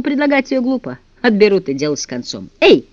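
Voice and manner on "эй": high loud call; boy shouting to the guards through the door, loud. Acted. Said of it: "крикнул он".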